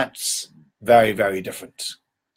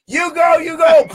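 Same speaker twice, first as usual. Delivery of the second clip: high, loud mock cheering from the sidelines; 14 semitones higher, 5 dB louder than usual. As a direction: cheer lazily from the bottom. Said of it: "watch a guy ... and go".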